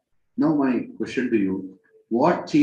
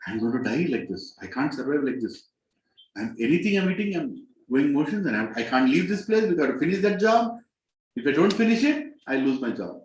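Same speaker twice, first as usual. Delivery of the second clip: acted plea, rising higher then dropping at the end; desperate prayer; 3 semitones higher than usual. Man praying to Krishna, desperate plea. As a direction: plead desperately, pitch climbing as it goes. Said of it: "you're praying to Krishna".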